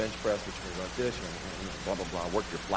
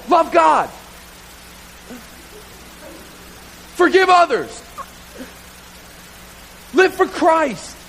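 insistent command; 9 semitones higher, 4 dB louder, slower than usual. Retold or imitated. Preacher quoting commands.

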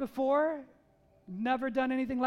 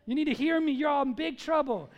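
louder, blunt fire-and-brimstone call; mock hellfire preacher, louder; bold confronting preach; 5 dB louder than usual. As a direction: hammer the sinners with it. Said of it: "he confronted very directly and very boldly".

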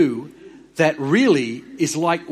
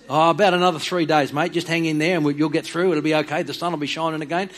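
easygoing mate-to-mate reassurance, a touch louder; lightly voiced God as a relaxed Aussie mate; breezy, matey comfort; casual reassuring God; 2 semitones higher, 3 dB louder than usual. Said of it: "And you know what God says?".

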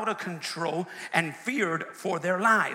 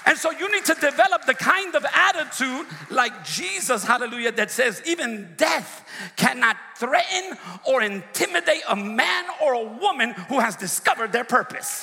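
high, loud sermon climax; preaching at full force; 5 semitones higher, 4 dB louder than usual. Real, not acted. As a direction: keep the shout going to the last word.

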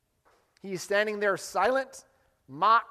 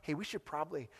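much softer, a timid half-mumble; mock murmur; 4 semitones lower, 12 dB quieter than usual. Preacher mimics a crowd murmuring meekly. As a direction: mumble it like a crowd that doesn't care. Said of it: "They're not just murmuring".

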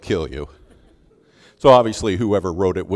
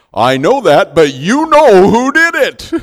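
much higher and louder accusation; loud accusing retort; 10 semitones higher, 13 dB louder than usual. Retold or imitated. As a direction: fire it back at her. Professor answers Donna.

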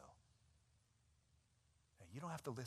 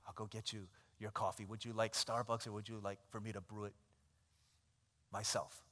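meek servant; 4 semitones lower, 6 dB quieter than usual. Acted. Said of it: "Do you say".

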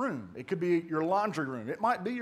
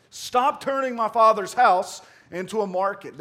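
exclaimed scripture; 7 dB louder than usual. Acted. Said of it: "Notice that exclamation mark".

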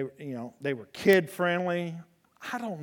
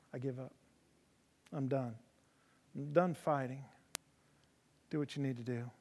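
resigned horse voice; 3 semitones lower, 8 dB quieter than usual. Retold or imitated. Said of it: "he said".

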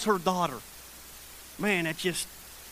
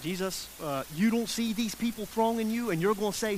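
mock disciples' doubtful question; mildly sarcastic; 4 dB quieter than usual. Disciples questioning Jesus in the crowd, mildly sarcastic. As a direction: lightly imitate incredulous followers. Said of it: "the sarcasm that his disciples has".

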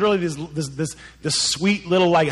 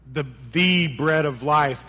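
"the" repeated as a full, stressed "thee"; weighty, slowed emphasis on "the"; slower than usual. Shown as a demonstration. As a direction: say the second "the" as THE, the one and only. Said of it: "the capital T".

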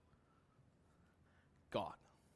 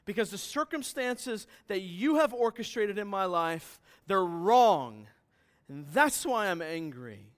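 louder, preaching Jonah's indignant complaint to God; angry Jonah; 3 semitones higher, 5 dB louder than usual. Acted. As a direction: make Jonah's grievance ring out. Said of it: "Jonah is saying".

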